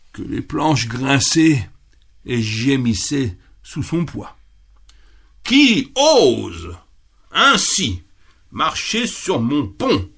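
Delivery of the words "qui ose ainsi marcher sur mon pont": roaring troll. Acted. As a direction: roar at whoever dares cross. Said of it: "rugit le treuil".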